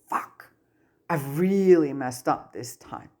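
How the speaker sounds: breathless whisper of realization; whispered dismay. Acted. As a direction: whisper it as the mistake sinks in. Tom realizes his mistake.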